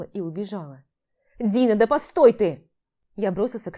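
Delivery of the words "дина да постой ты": loud call after her. Acted. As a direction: shout for her to wait. Calling her across the street.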